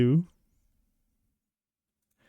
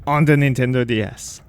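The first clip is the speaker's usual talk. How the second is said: episode intro. Acted. Gamer welcoming his viewers back in a lively host voice. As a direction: greet the viewers like a show host.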